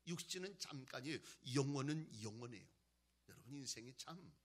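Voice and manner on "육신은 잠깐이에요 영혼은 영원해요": loud, emphatic sermon delivery; forceful preaching. Real, not acted. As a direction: proclaim it firmly to the congregation.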